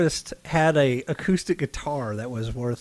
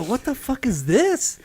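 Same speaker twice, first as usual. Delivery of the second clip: baffled fan; 11 semitones higher than usual. Retold or imitated. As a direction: imitate a confused fan reading the note. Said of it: "they would go".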